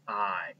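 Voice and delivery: 'I' said as eye, just saying its name; long i sound. Shown as a demonstration. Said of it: "that make the long sound".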